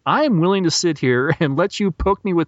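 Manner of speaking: rising irritation, climbing toward the last warning; exasperated warning. Retold or imitated. Terry warning the wardrobe man, mock-exasperated and building. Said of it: "grabs the guy by the collar".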